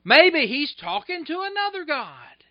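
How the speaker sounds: high, loud sarcastic jab. Acted. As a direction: needle them with mock concern. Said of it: "He's sarcastic".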